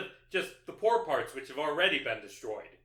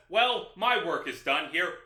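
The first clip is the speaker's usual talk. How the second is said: Batman voice; 5 dB louder than usual. Retold or imitated. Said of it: "Batman says".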